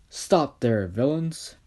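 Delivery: loud call with rising end; hero's challenge. Acted.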